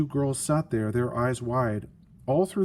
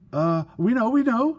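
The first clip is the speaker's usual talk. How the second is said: high, louder panicky we know; cried out; 10 semitones higher, 5 dB louder than usual. Acted. Sisters cry out to the invisible being's sister, high and panicky. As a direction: yelp it out, caught lying. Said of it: "cried the two sisters".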